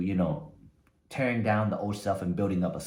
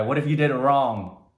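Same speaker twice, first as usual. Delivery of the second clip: louder drill-sergeant challenge; sergeant shouting; 3 semitones higher, 6 dB louder than usual. Retold or imitated. Sergeant loudly challenges the recruit. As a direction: bark the question at the recruit.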